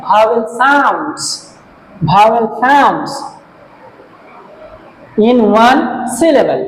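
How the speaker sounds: very slow, phrase by phrase; slow dictation. Shown as a demonstration. Teacher rereading the definition for students to copy, very slow. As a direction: read the definition back slowly for copying. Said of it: "Full stop।".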